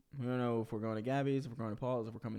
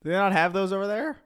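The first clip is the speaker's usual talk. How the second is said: outraged shout; 7 semitones higher, 11 dB louder than usual. Real, not acted. Mock outrage continues.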